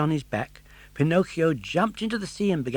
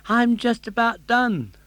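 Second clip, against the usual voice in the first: weakly; 10 semitones higher, 7 dB louder than usual. Acted. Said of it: "said Pinocchio weakly".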